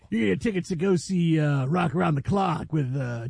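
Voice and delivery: put-on old-time radio DJ growl; hammed-up growly disc jockey patter; Wolfman Jack. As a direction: do a playful rock-and-roll DJ parody. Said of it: "you're going more Wolfman Jack".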